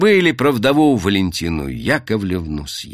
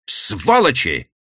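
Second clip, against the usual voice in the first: «Сволочи!» voiced and drawn out slowly, a mild mock cry; cried out; slower than usual. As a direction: call «Сволочи!» aloud, half-hearted outcry. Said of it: "выкрикнула она".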